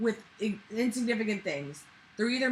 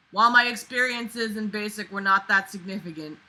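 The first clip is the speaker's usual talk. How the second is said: projected, deliberate reading voice; reading aloud; 2 semitones higher, 7 dB louder than usual. A narrator's reading. Reading a basic training memoir aloud, projected narration. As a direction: read the written line out firmly.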